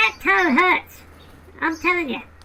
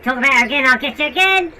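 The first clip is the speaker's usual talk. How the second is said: low, menacing voice; low tough voice; 10 semitones lower, 3 dB louder, faster than usual. Pretend. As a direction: threaten low and hard. Low brother threatens.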